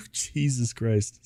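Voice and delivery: through a yawn. Real, not acted. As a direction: yawn the words out slowly. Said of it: "Let me just yawn real loud".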